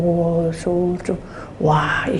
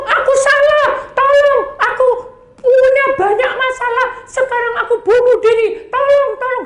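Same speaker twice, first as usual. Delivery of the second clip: high, loud, panicked cries; desperate screams for help; 3 dB louder than usual. Retold or imitated. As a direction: shriek for help like tormented souls. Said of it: "Saya dengar teriakan orang-orang itu". (jeritan minta tolong yang panik)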